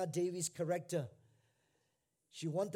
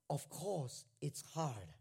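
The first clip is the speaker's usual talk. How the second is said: first take of the retort; 5 semitones lower, 7 dB quieter, slower than usual. Retold or imitated. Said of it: "spouts back at her".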